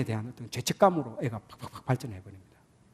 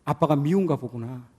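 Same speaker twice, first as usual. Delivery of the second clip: gentle mother; 3 semitones lower, 3 dB quieter than usual. Retold or imitated. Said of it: "마음을 읽어주는 겁니다".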